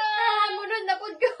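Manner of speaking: tearful, voice rising as you speak. Real, not acted. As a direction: through real tears. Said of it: "Why you crying?".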